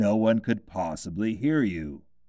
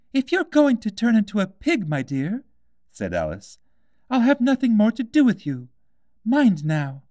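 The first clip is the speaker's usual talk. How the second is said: put-on high girl's voice scolding; stern little Alice; 12 semitones higher, 6 dB louder than usual. A narrator's reading. Alice warns the piglet baby, high and scolding. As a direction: wag a finger at the baby.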